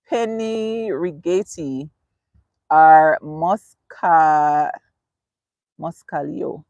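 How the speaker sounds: slowly sounding out "Penny Rigetti" and "Moscalio", syllable by syllable; tentative Italian pronunciation. Real, not acted. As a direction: feel your way slowly through unfamiliar "Moscalio", breaking off after "Mosca-". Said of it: "I hope I said that right".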